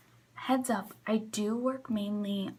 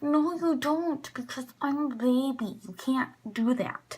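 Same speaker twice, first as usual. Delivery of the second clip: firm mock rebuff; 3 semitones higher, 4 dB louder than usual. Rebuffing customer.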